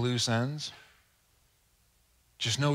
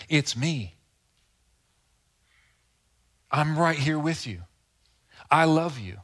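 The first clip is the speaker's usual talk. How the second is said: tender assurance; 3 semitones higher, 4 dB louder than usual. Acted. Voicing Jesus speaking to Martha.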